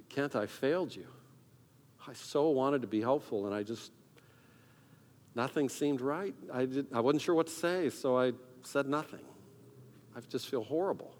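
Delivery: softly retold apology; regretful confession. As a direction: confess quietly to a friend, mildly downcast. Retold confession of failing a friend.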